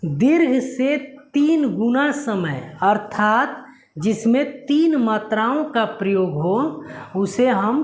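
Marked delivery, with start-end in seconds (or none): 0.0-2.8 slow, stressing दीर्घ with a falling tune; teacher slowing down on the key phrase; slow, stressed definition. Shown as a demonstration. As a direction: spell out दीर्घ से तीन गुना समय slowly for the class. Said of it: "ध्यान से सुनिएगा मैं क्या कह रहा हूँ".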